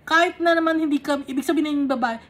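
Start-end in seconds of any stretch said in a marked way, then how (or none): 0.1-1.3 eager plea. Acted. Voicing the woman, fast and louder.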